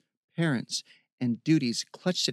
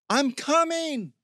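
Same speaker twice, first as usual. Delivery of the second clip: high, drawn-out call; long, raised cry of reassurance; 13 semitones higher, 4 dB louder, slower than usual. A narrator's reading. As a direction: call out slowly to someone far away. Calling out to rescue him.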